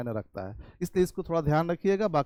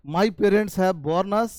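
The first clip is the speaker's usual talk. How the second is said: My parents have born us, each word spaced out slowly; slow teaching read; much slower than usual. Shown as a demonstration. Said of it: "उच्चारण same है". (धीमे-धीमे पढ़ाते हुए)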